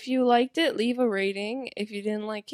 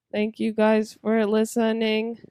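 robot voice; 6 dB louder than usual. Pretend. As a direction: speak like a monotone machine. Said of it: "None of them sound like robots".

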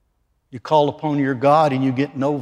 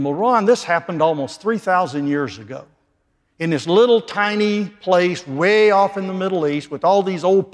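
imagined skeptic; 3 semitones higher than usual. Retold or imitated. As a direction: voice the doubter's objection. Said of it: "some of you may be thinking".

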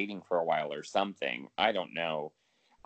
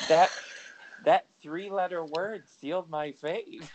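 amused; 7 semitones higher than usual. Real, not acted. Laughing at own story.

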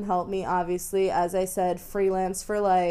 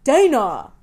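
exasperated shout; 4 semitones higher, 12 dB louder than usual. Real, not acted. Exasperated at friend's ignorance.

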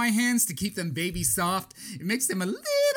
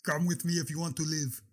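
mock action hero; 3 semitones lower, 5 dB quieter than usual. Movie-quote deep voice.

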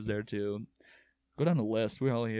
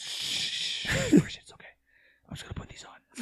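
whispering. Pretend. Acting out the pants swap.

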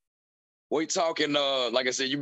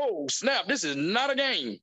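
higher, drawn-out amazed reaction; acted-out shock; 5 semitones higher, slower than usual. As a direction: play it stunned, stretching the words. Acts out own shocked reaction.

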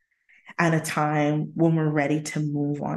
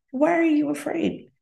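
voicing God; 10 semitones higher than usual. God voiced, dialogue.

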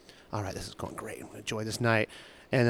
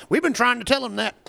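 mom's voice; 9 semitones higher than usual. Retold or imitated. Mom agreeing with the waiter.

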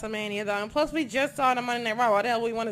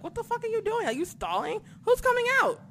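pitched up high in disbelief at the wrestler; exasperated rant; 11 semitones higher than usual. Retold or imitated. Fan yells at John Cena stalling, pitched high in disbelief. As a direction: yell at the screen in exasperated disbelief. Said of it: "I'm just like".

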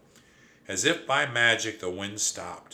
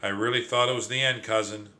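panting; 3 dB louder, faster than usual. Acted. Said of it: "panted Trap".

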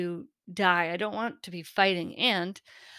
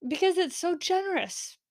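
choked up; 8 semitones higher than usual. Real, not acted. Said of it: "I'm gonna get choked up".

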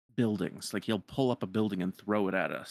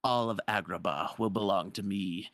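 dark lord. Retold or imitated. Jafar voiced taunting princess.

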